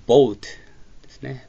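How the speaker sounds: boatをゆっくり、母音を二重母音オウで; boatのoaをオーでなくオウと発音; boatの発音実演. Shown as a demonstration. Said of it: "オウという発音になります". (boatはオウの二重母音ではっきりと)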